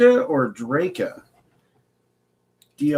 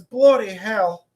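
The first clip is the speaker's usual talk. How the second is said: high, drawn-out British exclamation; British accent; 8 semitones higher, much slower than usual. Acted. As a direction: stretch it out in a mock British accent. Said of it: "He's just speaking in an accent".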